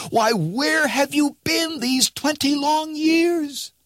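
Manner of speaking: put-on an old crone amazed to recognize him; exclaiming old woman. A narrator's reading. Old neighbor woman to Rip, high astonished exclaiming.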